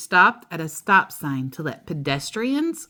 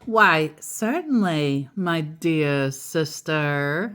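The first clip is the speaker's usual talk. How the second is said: exaggerated politeness; slower than usual. Overly polite brother voiced.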